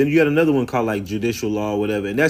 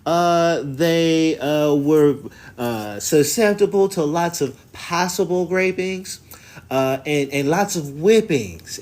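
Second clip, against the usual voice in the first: high, prim, hammed-up historian voice; mock scholar voice, much higher, prissy and condescending; mocking the documentary lady; 5 semitones higher than usual. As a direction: parody a pompous expert making it up as she goes. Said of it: "this crazy Y T lady".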